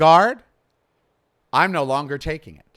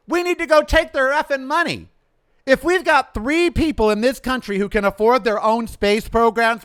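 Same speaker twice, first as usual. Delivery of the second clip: raised, heated demand; impassioned rant; 4 semitones higher, 4 dB louder than usual. Real, not acted. Host railing to listeners about the rich, impassioned rant. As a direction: rail against the rich, pitch pushed up.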